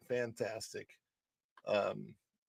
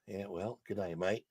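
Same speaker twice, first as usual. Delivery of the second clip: Australian accent; 2 semitones lower, 7 dB quieter than usual. Shown as a demonstration. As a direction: try talking like an Aussie. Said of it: "I'd sound like an Australian".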